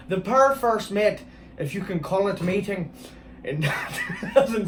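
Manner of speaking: a light, slightly slowed Irish lilt on the story; Irish accent. Shown as a demonstration. Rereading the ghost-wedding story in a mild Irish accent. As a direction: read the line with a gentle Irish accent. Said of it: "see, that's a good Irish accent".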